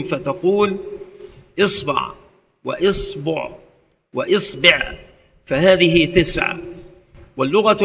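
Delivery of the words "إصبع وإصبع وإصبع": إصبع with kasra on the hamza, ba said first with a, then u, then i; إصبع said as isbaʕ, isbuʕ, isbiʕ; vowel variants. Shown as a demonstration. Teacher demonstrating the kasra forms, careful articulation. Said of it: "ويجوز في الباء ثلاثة أوجه".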